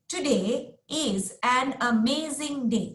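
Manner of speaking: "Today is an amazing day" with each word hit separately; teacher showing students the stiff wrong way; stressing every word. Shown as a demonstration. Every word stressed. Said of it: "I'm not saying".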